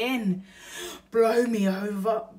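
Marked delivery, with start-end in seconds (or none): 1.1-2.3 louder amazed exclamation; hammed-up burglar surprise; astonished. Bill hears burglar.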